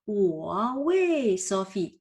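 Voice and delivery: slow, with wei in a falling fourth tone; slow Mandarin example; Chinese example sentence. Shown as a demonstration. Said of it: "donc je peux dire".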